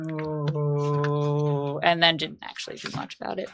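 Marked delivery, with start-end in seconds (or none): 0.1-1.8 long, low monotone moan; drawn-out pretend zombie "oh"; imitated zombie moan. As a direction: moan like a dim burning zombie. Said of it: "got to the wall and was like".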